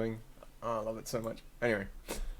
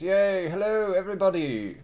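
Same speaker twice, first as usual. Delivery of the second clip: Tony voice; 5 semitones higher than usual. Acted. Streamer greeting everybody in chat, put-on cheery voice. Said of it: "It's a Tony voice".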